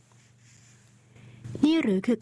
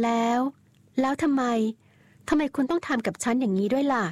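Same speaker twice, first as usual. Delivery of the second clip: put-on higher young woman's voice, reproachful; Danielle, hurt and accusing; 4 semitones higher than usual. Young wife reproaching her cousin-husband, raised hurt voice. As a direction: throw the question back at him, wounded.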